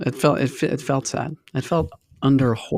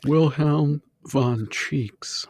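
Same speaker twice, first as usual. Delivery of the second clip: put-on wise old sage; much slower than usual. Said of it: "This guy doesn't sound real at all".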